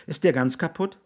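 put-on high-pitched, curious child; child's question. Raby asks his mother about the dead man, childlike.

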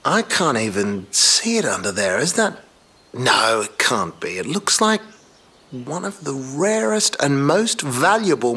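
loud, rising astonishment; can't believe what you're seeing; excited discovery. Real, not acted. Excited discovery of rare Maserati.

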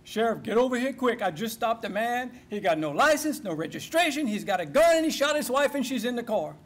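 mock-panicked call to the sheriff; mild urgent alarm. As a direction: report it urgently, piling up the facts. Deputy urgently calls sheriff for backup.

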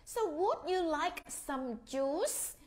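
slow, rising polite offer; a hint of a kind dad asking; father offering. Father asking two children about juice, lightly voiced. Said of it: "bố hỏi hai đứa con".

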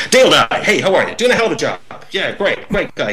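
brighter, chummy host voice; friendly headmaster. Retold or imitated. Captain greeting a soldier's mother on set, genial. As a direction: gush like a headmaster meeting a parent. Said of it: "He'd just turn into this sort of headmaster figure".

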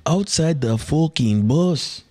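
put-on high, slow, drawn-out Irish accent; mock-angry Irish fighter impression. Retrying Conor's line for his co-host, in an angry Irish accent. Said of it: "I gotta be angry when I'm doing the Irish accent".

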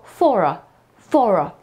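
for a run together as 'fora', R sounded; 'fora' with the R linking both words. Shown as a demonstration. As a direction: join for and a into one word. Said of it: "to nam się połączy w jedno w wymowie".

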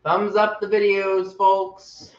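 hyped call-out. Real, not acted. Host urging viewers to thumbs up, hyped. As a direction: sell it to the audience like a host.

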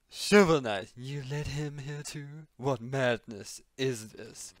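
character voice. Acted. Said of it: "Oh no, wrong voice".

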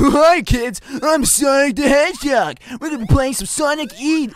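hammy cartoon hero greeting; a bad, hammed-up hedgehog intro; Sonic voice. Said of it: "your Sonic voice, and it still ain't good".

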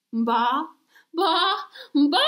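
building sneeze. Acted. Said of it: "dust round nose".

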